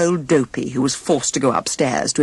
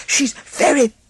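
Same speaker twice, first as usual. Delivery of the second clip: admiring; 11 semitones higher, 3 dB louder than usual. Acted. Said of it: "said Sneezy admiringly".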